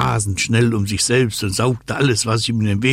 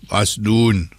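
slow, insistent wind-character question; drawn-out demand of the wind; North Wind asking; 2 semitones higher, slower than usual. Acted. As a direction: press slowly for an answer. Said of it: "fragte der Nordwind".

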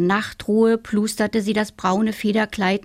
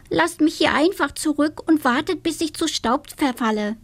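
dramatic little witch; 8 semitones higher than usual. Acted. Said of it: "meinte das Hexlein".

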